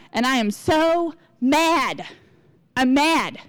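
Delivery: mock-outraged, dragging out the grievance; acted indignant venting. Calling up friends to complain about her, hammed-up mad. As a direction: play up being mad for a sympathetic ear. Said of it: "I like to be mad sometimes".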